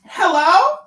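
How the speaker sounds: shouted, high, calling out; loud hello. Real, not acted. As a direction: call out loudly to get attention.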